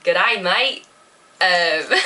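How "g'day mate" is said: Australian accent. Shown as a demonstration. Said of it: "I can do, like".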